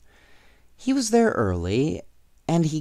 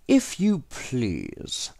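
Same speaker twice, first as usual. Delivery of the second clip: mock polite robber; 3 semitones higher, much slower than usual. A narrator's reading. Robber mock-politely takes suitcase.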